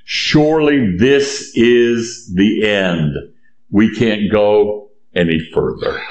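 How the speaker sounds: slow, resigned acted despair; voicing people who have given up; despairing Israelites. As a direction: draw it out as if doomed. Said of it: "And they are saying".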